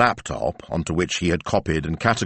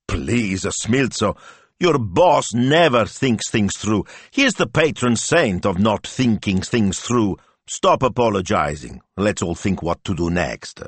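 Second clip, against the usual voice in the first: encouraging Betta; 4 semitones higher than usual. Acted. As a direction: build him up encouragingly. Betta scolding the boss.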